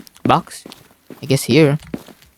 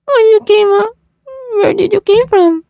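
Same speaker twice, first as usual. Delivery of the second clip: much higher, louder, caught off guard; startled outburst; 3 dB louder than usual. Real, not acted. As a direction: blurt it out in shock. NPC suddenly appears again.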